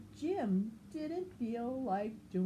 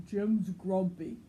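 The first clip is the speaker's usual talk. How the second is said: louder tattling voice; Norman telling; 6 dB louder than usual. Acted. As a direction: report it like a tattletale. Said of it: "Norman told Marabou".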